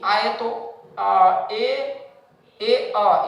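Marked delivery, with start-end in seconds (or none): 2.6-3.3 ए अ said as two drawn vowels, e then a; vowel sound demo. Shown as a demonstration. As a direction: sound out ए अ slowly as e-uh. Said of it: "ए अ पढ़ते हैं".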